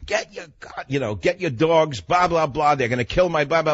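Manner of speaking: mock yell at the owners; shouting at the dog owners to get their dogs; retold scream. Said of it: "I scream".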